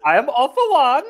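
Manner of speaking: light-voiced German, high and loud, laughing; All for One. Villain introducing himself, high German accent. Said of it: "light-voiced German".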